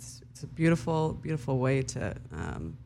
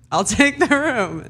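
high, laughing acceptance; eager laughing yes; 11 semitones higher, 12 dB louder than usual. Retold or imitated. Telling her friend she'll take the room, laughing. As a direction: blurt it out through a laugh. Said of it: "And I was like".

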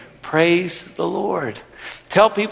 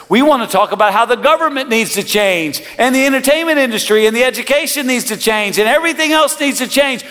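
climbing higher with every clause; rising preacher intensity; 8 semitones higher than usual. Real, not acted. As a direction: build the list to a peak. Preacher building to a climax.

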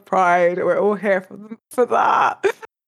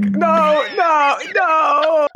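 higher, half-hearted yell at the screen; mock shouting; 7 semitones higher, much slower than usual. Fan pleading with a clueless character, mock shouting. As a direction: protest in a pitched-up mock shout. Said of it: "like, shouting at the screen".

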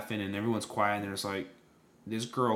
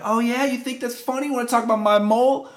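high, loud mock outrage; raised-pitch, hammed-up challenge; retold confrontation; 11 semitones higher, 6 dB louder than usual. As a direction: imitate an offended girl picking a fight. Retold angry girl confronting him.

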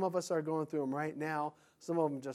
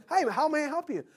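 cheery clerk; 10 semitones higher, 4 dB louder than usual. Retold or imitated. Clerk voiced in customer scene.

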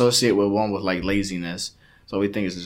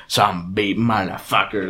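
broken-English Latino swearing, a bit lower; Latino accent; 5 semitones lower, 4 dB quieter than usual. Retold or imitated. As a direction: demonstrate how Latinos curse in English. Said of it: "you know how Latinos curse".

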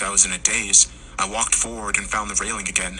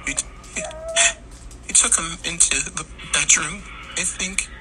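soft, broken, trembling words; shaky crying voice; 10 semitones higher, 3 dB quieter than usual. A narrator's reading. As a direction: stammer it out through tears. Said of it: "her voice cracking and shaking".

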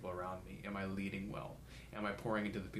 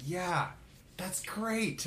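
breezy mock mentor, much higher, laughing through it; laughing brush-off; 10 semitones higher, 4 dB louder, much slower than usual. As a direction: toss it off like it's no big deal. Mentors brushing off his worries.

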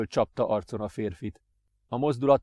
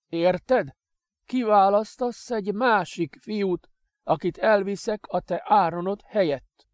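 cruel master; 7 semitones higher, 3 dB louder than usual. Acted. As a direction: dangle the bargain coldly. Master dictates cruel terms.

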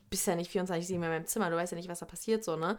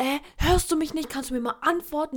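mock nagging; 5 semitones higher than usual. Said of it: "Du meckerst mich sofort an".

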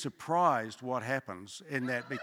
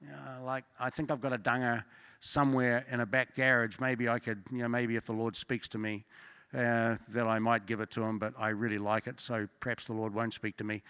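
mock reluctant giver; 4 semitones lower, 3 dB quieter than usual. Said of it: "everybody else is, I'm sure, going".

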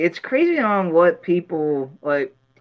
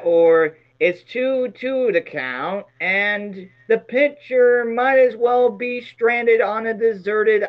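poetic announcer voice; 4 semitones higher, slower than usual. Pretend. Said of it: "you say something very poetic".

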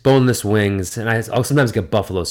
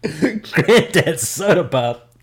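drawled savoring voice; 7 semitones higher, much slower than usual. Acted. Savoring the host's phrase.

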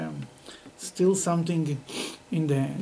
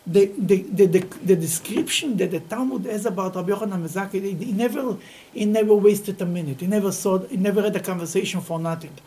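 usual speaking voice

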